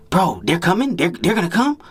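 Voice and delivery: high, eager disbelief; excited friend. Retold or imitated. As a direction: squeal it like the girls are really coming. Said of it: "Like, he excited".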